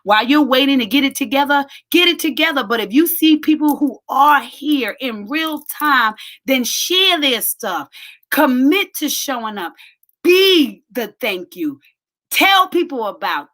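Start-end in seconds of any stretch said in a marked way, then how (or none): 0.0-9.7 louder, higher preaching push; rising exhortation. Real, not acted. Preaching exhortation to support others. 10.2-11.8 slow, louder punchline; slow emphatic. Real, not acted. Preaching punchline.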